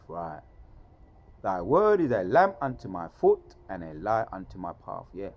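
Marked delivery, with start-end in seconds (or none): 1.4-5.1 loud, raised-pitch declaiming of scripture; scripture recitation. Acted. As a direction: proclaim the verse with force.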